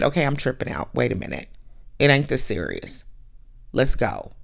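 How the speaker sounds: low, level talking-down of oneself; calm self-talk. Retold or imitated. Woman in a garage admitting she is overreacting, low calm self-talk. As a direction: drop low and steady yourself.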